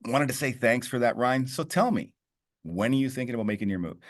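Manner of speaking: a friendly radio-style sales ask; upbeat phone voice. Shown as a demonstration. Coaching agents, showing the upbeat phone ask. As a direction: tell me said with a bit of authority. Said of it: "I want you to notice how happy I sounded".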